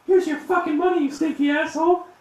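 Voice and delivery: high, loud parting insult; storming-out scream of contempt; furious screaming. Acted. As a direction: hurl it in a high-pitched shriek. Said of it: "she's screaming at her father".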